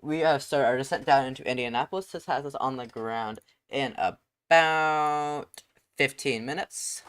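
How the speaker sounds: airline captain PA voice; captain announcement. Pretend. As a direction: address the cabin like a pilot. Pilot making passenger announcement.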